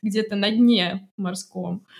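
high, proud bragging; boastful to a friend. Shown as a demonstration. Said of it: "надо как подруге вот так рассказывать".

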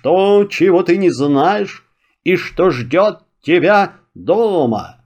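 a lightly voiced hissing dragon; hissing serpent dragon. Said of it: "зашипел".

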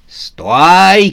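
high, loud call to halt; shouting. A narrator's reading. Сюзанна chases Новый год across the field, shouting. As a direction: bellow after a runner. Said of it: "кричала ужасная Сюзанна".

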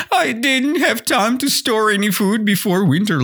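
high-pitched, tearful grasshopper whine; whining. Shown as a demonstration. Teacher demonstrates the grasshopper making excuses, whining. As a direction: whine it like you are nearly crying. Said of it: "it's a whining".

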